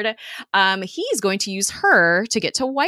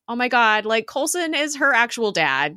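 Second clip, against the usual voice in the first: sudden excited oh my God, higher and louder; excited gush; 6 semitones higher, 4 dB louder than usual. Real, not acted. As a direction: burst out in real delight. Gushing over Coulson as dad.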